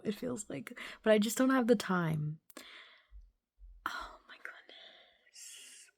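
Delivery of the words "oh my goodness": very slow, hushed whisper; stunned whisper. Real, not acted. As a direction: breathe it out in disbelief. Stunned after finishing the book.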